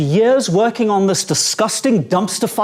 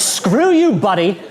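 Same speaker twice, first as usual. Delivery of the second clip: mild road rage; slower than usual. Acted. Utah driver to whoever is in the way, mock road rage. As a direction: toss off a mock driver's insult.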